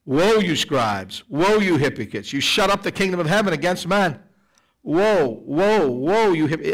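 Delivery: lightly acted stern rebuke; slow, drawn-out woes of mild indignation; Jesus rebuking. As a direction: pronounce each woe as an angry judgment. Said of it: "Jesus is throwing the woes at them".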